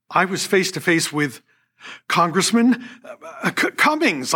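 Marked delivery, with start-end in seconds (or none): 2.1-4.3 high, flustered blurt of a wrong name; higher, hurried blurt with a stumble on the name. Retold or imitated. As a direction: stammer it out in sudden recognition. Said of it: "I blurted out".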